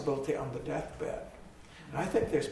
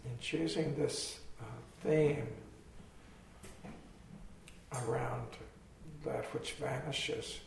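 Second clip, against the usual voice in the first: guided meditation; 3 dB quieter, slower than usual. Acted. After eyes closed, meditation.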